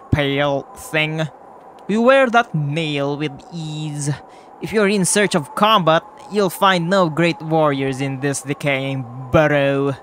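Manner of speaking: put-on lightly accented warrior challenge; measured, slightly put-on character voice; Tiso's voice. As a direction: deliver it as a mildly haughty fighter with a shaky accent. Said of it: "that's the voice I got from him".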